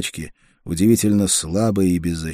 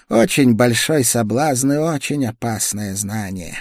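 higher, tense voice of a sick woman; feverish young woman; 6 semitones higher, 4 dB louder than usual. A narrator's reading. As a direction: feverish woman, pushing through chills. Feverish woman magister speaks.

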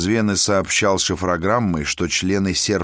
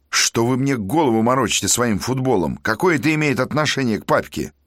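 angry; 6 semitones higher than usual. Acted. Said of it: "Козловский рассердился".

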